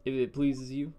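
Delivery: slow, careful Yankee speech; mock-formal Yank accent; put-on Yankee accent. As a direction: switch slowly into an affected Northern accent. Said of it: "I can talk Yank for you".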